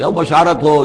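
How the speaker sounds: a touch of a shout, retelling; retold call. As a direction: call out good news, half-heartedly. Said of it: "آواز دی کہ".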